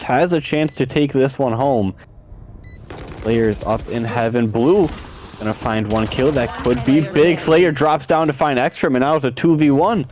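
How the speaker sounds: lively play-by-play call; esports caster. Acted. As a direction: call the action live, building.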